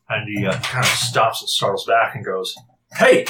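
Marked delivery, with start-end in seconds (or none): 2.9-3.2 shouting to the group; calling out. Acted. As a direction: call them over loudly. NPC calling out from bushes.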